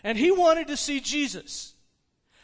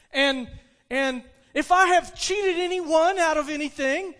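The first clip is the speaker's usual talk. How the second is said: loud, raised-pitch public vow; proclaiming; 4 semitones higher, 6 dB louder than usual. Acted. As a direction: stand up and declare it to the room. Zacchaeus stands up, makes vow.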